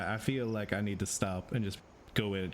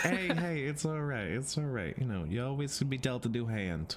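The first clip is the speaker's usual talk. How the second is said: comforting; 4 semitones higher than usual. Acted. Vox comforting Luce.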